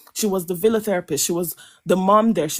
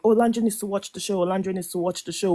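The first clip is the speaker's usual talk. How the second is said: mimicked panel tone; faster than usual. Speaker mocking how panels discuss Olandra, glib. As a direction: repeat it like glib panel chatter. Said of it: "the tone people say it on these panels".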